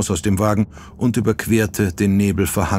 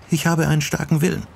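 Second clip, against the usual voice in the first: defiant; 9 semitones higher, faster than usual. A narrator's reading. Sachiko trotzt Jack.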